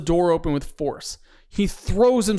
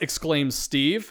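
usual speaking voice

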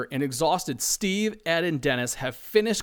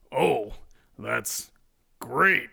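fake enthusiasm; 3 semitones lower, much slower than usual. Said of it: "as he fakes enthusiasm".

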